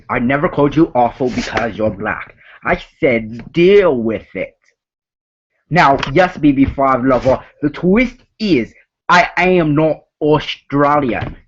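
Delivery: put-on lightly done Australian accent, a bit fast; fake Australian accent. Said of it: "my fake Australian accent".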